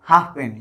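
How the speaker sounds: हाफ पेनी with the F almost swallowed; हाफ पेनी, F melting into p; very light F. Shown as a demonstration. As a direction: barely sound the F in हाफ before पेनी. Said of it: "एकदम हल्का उच्चारण किया जाता है".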